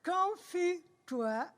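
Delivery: talking around a pencil; pen in teeth. Real, not acted. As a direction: pencil clenched in mouth. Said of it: "avec un crayon dans la bouche".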